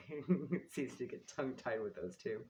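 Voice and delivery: chuckling through the words; laughing while talking. Real, not acted. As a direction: talk through a giggle. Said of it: "without laughing".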